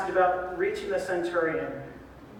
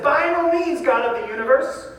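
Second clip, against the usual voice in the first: mock defiant refusal; 4 semitones higher, 5 dB louder than usual. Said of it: "But he says".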